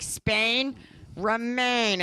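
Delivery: sing-song pet talk; dog voice. Retold or imitated. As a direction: lilt it to the dog. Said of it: "That's my dog voice".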